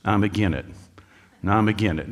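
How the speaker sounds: Texan "agin" for against, said twice; Texas saying. Shown as a demonstration. Preacher quoting a Texas saying to the crowd, folksy "agin". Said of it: "as we say in Texas".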